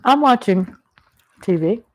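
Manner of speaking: breathy whisper aside. Real, not acted. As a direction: whisper it like a secret. Whispers aside while eating.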